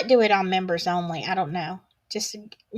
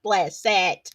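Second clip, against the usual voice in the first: mock pity; slower than usual. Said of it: "I was like".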